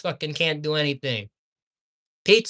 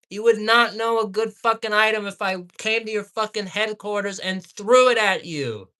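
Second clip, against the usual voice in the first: raging rant, still raised; angry outburst; 3 semitones higher than usual. Real, not acted. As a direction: keep hammering them in fury. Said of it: "I apologize for the outburst".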